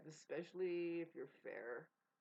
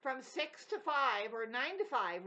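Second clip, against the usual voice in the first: mock weary worker; 8 semitones higher, 10 dB louder, slower than usual. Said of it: "The system has you over there going".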